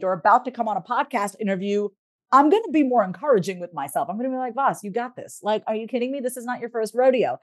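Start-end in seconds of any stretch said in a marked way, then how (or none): 4.5-7.4 cool confidence. Retold or imitated. Nervous before a stage show, she reassures herself coolly. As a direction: talk yourself up calmly before going on stage. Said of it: "it's a very cool confidence".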